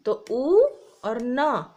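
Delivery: teacher blending letters aloud; sounding out. Shown as a demonstration. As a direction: stretch ऊ, then न, blending to ऊन. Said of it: "बड़े ऊ से".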